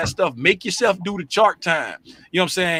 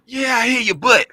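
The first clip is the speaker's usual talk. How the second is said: mocking grumble; 5 semitones higher than usual. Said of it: "you got a butt in your voice".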